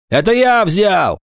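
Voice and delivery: high, offhand confession; careless voice. A narrator's reading. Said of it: "небрежный голос Агафонова".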